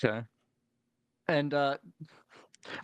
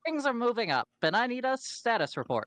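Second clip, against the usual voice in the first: Machina voice; 10 semitones higher than usual. Acted.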